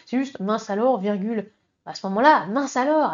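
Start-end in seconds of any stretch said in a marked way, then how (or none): 2.5-3.1 a punchy little outburst; exclamation. Shown as a demonstration. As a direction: say "mince alors" as an exclamation point. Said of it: "avec un point d'exclamation".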